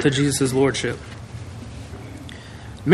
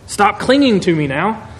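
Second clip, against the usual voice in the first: gentle paraphrase; 4 semitones higher than usual. Shown as a demonstration. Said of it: "I'm gonna paraphrase this".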